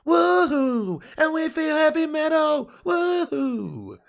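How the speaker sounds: high, loud whooping cheer; excited whoop. Real, not acted. Streamer whooping to chat about World Cup ninety-eight. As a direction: whoop it up like a fan.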